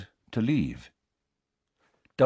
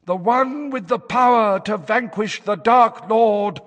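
higher, louder trance-like fortune teller; trance prophecy voice; 13 semitones higher, 6 dB louder than usual. A narrator's reading. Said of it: "in the harsh, hoarse tones".

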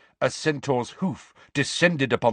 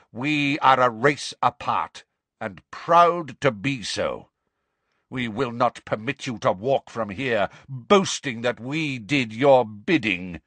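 proud, stern pronouncement, lightly snarled; mild snarl. Acted. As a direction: declare it with haughty displeasure. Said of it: "snarled the centaur".

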